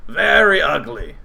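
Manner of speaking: slow goblin voice. Acted. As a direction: drag out each dreadful trait slowly. Goblin describes queen.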